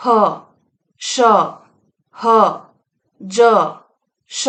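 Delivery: ह, श, ह, ज, श each hissed out apart, the last श drawn out slowly; fricative demo. Shown as a demonstration. Teacher to students, letting the air hiss through ह श ज. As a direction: let the air rub through ह श ज, one sound at a time. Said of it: "उच्चारण करके देखिएगा".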